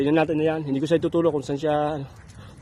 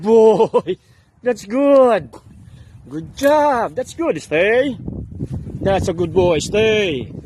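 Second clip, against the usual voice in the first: talking to a dog; 3 semitones higher, slower than usual. Real, not acted. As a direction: cheer the dog on. Praising dog during training.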